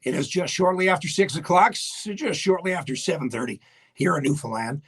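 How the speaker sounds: a host introducing his music radio show; radio announcer. Acted. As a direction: present the show like an old-time radio man.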